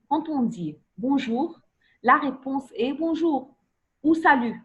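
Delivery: slowed, deliberate teacher explanation. Shown as a demonstration. Teacher explaining greetings to pupils, slowly. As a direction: spell out the rule slowly. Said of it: "teacher explains slowly".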